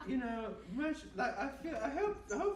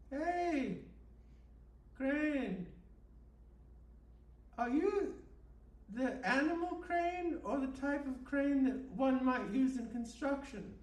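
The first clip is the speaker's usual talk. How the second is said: calling out; 4 semitones higher, 5 dB louder, slower than usual. Acted. Calling out to the crane.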